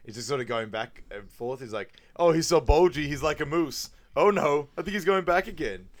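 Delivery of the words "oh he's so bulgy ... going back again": high, loud, gushing imitation; hammed-up breathless gossip; mock excited gawking. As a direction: gush like a scandalised neighbour. Retelling Foster's excited commentary.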